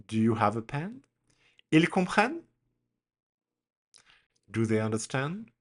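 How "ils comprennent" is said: "Ils comprennent?" pitched high with a questioning lift; question intonation. Shown as a demonstration. Teacher shows a question made by intonation alone, rising intonation. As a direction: raise "comprennent" into a clear question. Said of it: "but the intonation is different".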